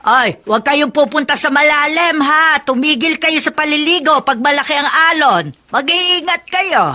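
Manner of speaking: loud anxious scolding; worried warning. Acted. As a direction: warn the kids loudly like a worried grandmother. Grandma warns about deep water.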